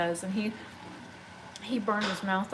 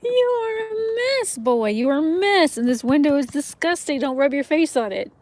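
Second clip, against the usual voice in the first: higher and louder, playful scolding; pet talk; 6 semitones higher, 8 dB louder than usual. Real, not acted. Woman fondly scolding her cat rubbing the window, loud pet talk.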